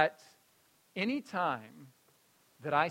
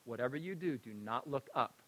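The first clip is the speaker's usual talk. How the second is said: solemn grandma command; 4 semitones lower, 8 dB quieter than usual. Retold or imitated. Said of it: "She says".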